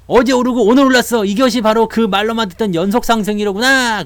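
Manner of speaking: hammed-up delight at a rally; thrilled investor. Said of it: "그러면서 막". (들뜬 개미 투자자의 과장된 감탄)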